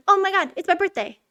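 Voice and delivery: hammed-up birthday joy; mock excited gasp. Lonely King Candy realizing it's his birthday, mock excited. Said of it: "he's like".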